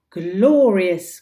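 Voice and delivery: loud, gleeful exclamation; delighted cry. Acted. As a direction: shout it with villainous joy. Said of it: "cried Hook".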